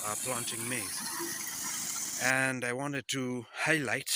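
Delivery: slightly winded while walking; out of breath. Real, not acted. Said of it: "sorry, I'm walking, so I'm a bit out of breath".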